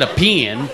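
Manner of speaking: put-on PEN echoed in a Texas accent, "pee-in"; mimicked Texan pen. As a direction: query PEN as a two-syllable Texan "pee-in". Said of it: "I got a pen in my bag".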